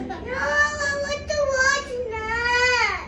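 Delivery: tearful, slow whining no; crying protest. Real, not acted. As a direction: cry out the protest. Child protests being made to lie down.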